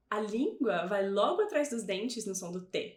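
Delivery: normal talking voice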